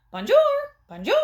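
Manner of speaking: high bird chirp; a talking bird through the wall. A narrator's reading. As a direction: squawk it like a mynah. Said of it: "in a bird voice".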